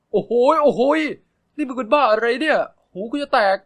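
high, loud scolding shout; annoyed yell. Acted. Narrator yells at his shrieking friend, loud and annoyed. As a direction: yell at him to stop screaming.

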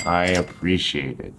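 understated, sincere seriousness; serious, formal thanks. Shown as a demonstration. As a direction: thank someone formally and earnestly. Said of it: "want to be a little extra serious".

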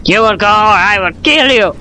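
lightly voiced threatening boss; stern commander. Statue threatening its reluctant companion, mock stern.

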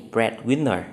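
"Breadwinner" with the main stress on Bread; first-syllable stress. Shown as a demonstration. Teacher reading a compound noun option, stress on first syllable of "Breadwinner". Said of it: "nhấn dấu nhấn ở âm tiết đầu".

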